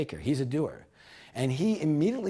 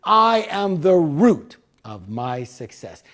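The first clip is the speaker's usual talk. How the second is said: slow, loud affirmation with "I" stressed; group declaration; 6 dB louder, slower than usual. Shown as a demonstration. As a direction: declare it firmly for the crowd. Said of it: "Repeat after me".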